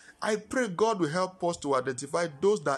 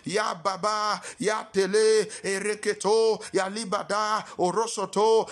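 speaking in tongues. Acted. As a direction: chant in tongues. Praying in tongues.

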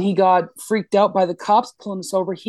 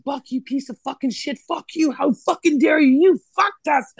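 high-pitched mock tirade, building in level; retold freak-out; 7 semitones higher than usual. Driver losing her mind at Buck in the car, retold freak-out. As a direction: curse out a friend, voice pitched way up. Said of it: "and I freak out".

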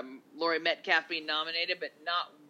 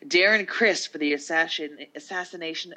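loud awards-host announcer read; 3 semitones higher, 8 dB louder than usual. Pretend. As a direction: call out the nominee grandly. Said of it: "I'm trying to sound like the announcer chick on the show".

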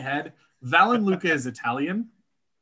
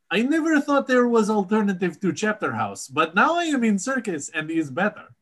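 imitating Aludra's foreign accent, slightly higher; 5 semitones higher, faster than usual. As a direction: put on a foreign accent for a circus newcomer. Voices Aludra in broken English.

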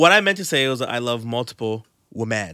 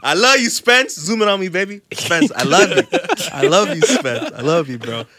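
hammed-up love; 4 semitones higher than usual. Hamming affection for friend.

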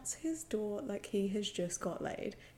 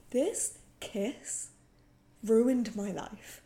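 mock despair; 5 dB louder, slower than usual. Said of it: "I was like".

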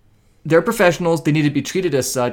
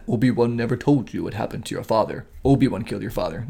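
Darth Vader voice; 4 semitones lower, 5 dB quieter than usual. Pretend. Quoting Darth Vader line.

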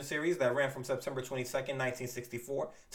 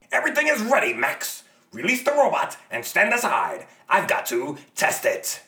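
yelling across the room; 3 semitones higher, 10 dB louder than usual. Acted. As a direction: call out across a lab. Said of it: "shouting across the room to Max".

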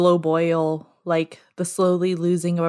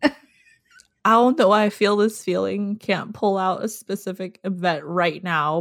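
fighting back real tears; on the verge of tears; 3 semitones higher than usual. Real, not acted. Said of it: "I can tell that I'm gonna cry".

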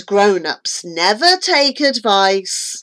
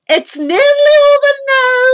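high, loud, hurried reassurance; excitable dentist at work; dentist character; 6 dB louder, faster than usual. A narrator's reading. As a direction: rush it out over the patient's yells. Dentist voiced mid-extraction.

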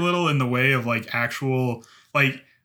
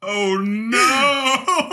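laughing; 8 semitones higher than usual. Pretend. Mock horror movie lines.

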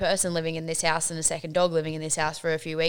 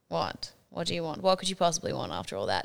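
groggy annoyed; 3 semitones lower, 6 dB quieter than usual. Retold or imitated. Half-asleep, annoyed at boyfriend.

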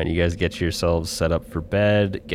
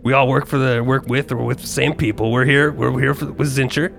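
friendly messenger voice; 4 semitones higher than usual. Acted.

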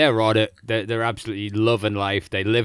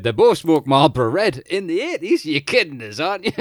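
incredulous; 6 semitones higher, 4 dB louder than usual. Retold or imitated. Mocking disbelief at the documentary.

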